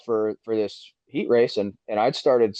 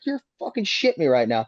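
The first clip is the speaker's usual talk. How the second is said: indignant retort; 5 semitones higher than usual. Retold or imitated. Retold quarrel after the crash.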